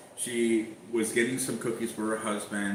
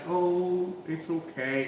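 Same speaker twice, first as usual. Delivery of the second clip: imitating her easygoing tone; 6 semitones higher, much slower than usual. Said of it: "she's so like".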